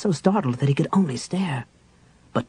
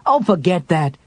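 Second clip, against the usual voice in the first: impatient snap; 4 semitones higher, 4 dB louder than usual. Acted. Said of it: "Tanis snapped impatiently".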